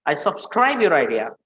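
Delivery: slow, drawn-out grand phrasing; overly formal show-off; mock pompous English. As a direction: stretch each word pompously. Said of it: "कोई दूसरा बोल दे".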